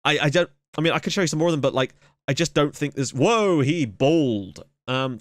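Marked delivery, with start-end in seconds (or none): 3.1-4.6 long drawn-out surprised reaction; startled whoa. Real, not acted. Gamer spotting an odd-looking player, amused surprise. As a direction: stretch the words in amazement.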